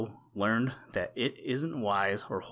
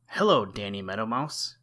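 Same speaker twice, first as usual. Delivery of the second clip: a louder, cheerful hello called out; mild exclamation; 5 dB louder than usual. Acted. Blacky greeting Danny in the grass, mild exclamation. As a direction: hail a small friend below, lightly exclaiming. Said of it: "exclaimed Blacky".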